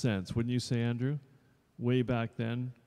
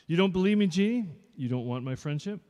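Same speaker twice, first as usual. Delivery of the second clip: much higher and louder, mock-wounded; Robert hurt; 7 semitones higher, 6 dB louder than usual. Robert Burns protesting to Jeannie, mock hurt. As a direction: play the wounded suitor, high and loud. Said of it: "Ah, Jeannie and Robert".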